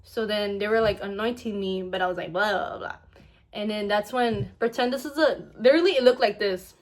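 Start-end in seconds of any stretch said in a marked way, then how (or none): 2.3-3.0 quick babbled nonsense syllables; imitated mumbling. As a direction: babble as if mumbling without words. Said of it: "it was, like, mumbling sounds like that".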